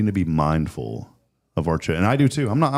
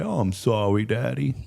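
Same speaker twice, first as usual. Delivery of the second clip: pitiful apology; 3 semitones higher than usual. Retold or imitated. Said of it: "sad little pitiful pouty face".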